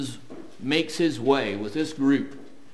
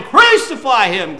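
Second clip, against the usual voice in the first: a louder mock crowd call of crucify; "Crucify him" called out louder like the mob; preacher voicing the mob's cry, louder; 5 semitones higher, 9 dB louder than usual.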